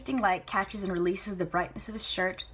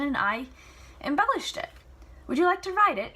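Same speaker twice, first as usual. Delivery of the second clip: spirited Celia; 6 semitones higher than usual. Acted. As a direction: argue playfully with Papa. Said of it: "Celia pressing her father".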